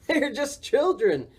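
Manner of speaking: high, drawn-out, lightly amused reply; amused laugh. A narrator's reading. Boris reassuring scared Morris, lightly laughing. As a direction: say it through a touch of storybook laughter. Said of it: "Boris laughed".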